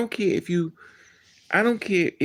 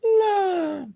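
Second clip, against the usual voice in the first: very high, drawn-out sing-song imitation; mock a sugary-sweet man, way up high; flowers and lilies. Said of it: "all you saw was flowers and lilies".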